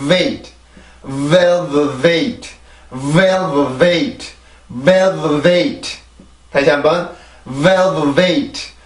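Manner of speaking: velvet built from well, v, wait, stress on VEL; teacher trying out velvet; pronunciation drill. Shown as a demonstration. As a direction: velvet syllable by syllable then whole. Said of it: "발음해봅니다".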